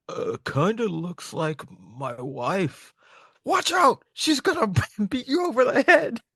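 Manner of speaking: slow then high shouted warning; high mock alarm. Recapping manga to friends, giant shouting high warning about his wife. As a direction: warn them high and loud.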